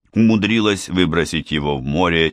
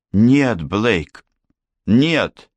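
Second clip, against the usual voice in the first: desperate cry; 3 semitones higher, much slower than usual. Acted. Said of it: "По её лицу покатились слёзы".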